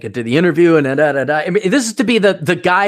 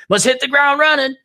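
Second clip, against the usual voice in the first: higher mock yell from an orderly; 12 semitones higher, 4 dB louder than usual. Nursing home orderly yelling at him, mild mock yell. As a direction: bark it like a pushy orderly. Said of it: "he'll be yelling at me".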